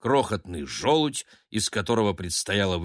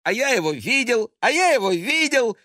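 put-on high, loud excited child's chant; boy bragging he saw the baby; 13 semitones higher, 5 dB louder than usual. A narrator's reading. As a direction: crow it out like a proud kid. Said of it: "стремительно прозвучал его голос".

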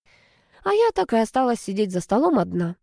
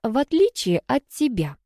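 higher-pitched needling jab; teasing dig; 5 semitones higher than usual. A narrator's reading. Sister needling her brother about hockey, teasing. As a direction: needle him with a lifted voice. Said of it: "подковырнула я брата".

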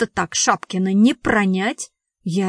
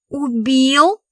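higher, startled question; shocked gasp; 4 semitones higher, 4 dB louder than usual. A narrator's reading. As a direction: echo the word in mild shock. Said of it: "ахнула Томочка". (изумлённо ахнуть)

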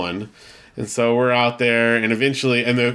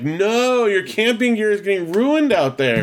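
retold protest; 9 semitones higher, slower than usual. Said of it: "And I'm like".

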